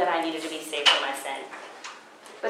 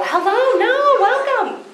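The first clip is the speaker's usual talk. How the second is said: much higher, laughing hello to latecomers; laughing welcome; 6 dB louder than usual. Real, not acted. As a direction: greet the front row with a bubbly laugh.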